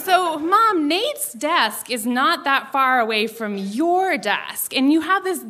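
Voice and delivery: wheedling pitch. Retold or imitated. Teen pitching a revenge plan to mom over dinner, wheedling. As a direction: pitch a sly plan to mom, drawing out the key words.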